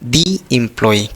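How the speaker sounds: You are the employee spoken very slowly, with a pause after are; slow dictation. Shown as a demonstration. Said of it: "तो यहाँ क्या लिखे". (धीरे-धीरे रुककर लिखवाना)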